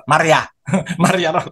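Maria squeezed short, as other regions say it; regional pronunciation. Retold or imitated. Mimicking another region's way of saying Maria, short and amused. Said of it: "mga ibang region".

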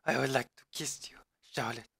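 breathy whispered mock romance; whispered lover. Jimmy whispering back to Charlotte, hammed-up romance. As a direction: whisper it like a lovesick hero. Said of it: "Oh, Jimmy".

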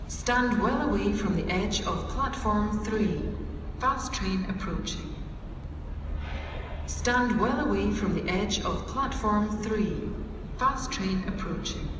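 station PA announcement; echoing tannoy on the platform; on a train platform. Real, not acted. Platform safety announcement over PA.

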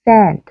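a quick relaxed e in SEND, no nasal twang; âm e bình thường. Shown as a demonstration. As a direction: SEND with a short, plain e. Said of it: "Đáp án chính xác là đáp án thứ nhất". (SEND đọc âm e bình thường)

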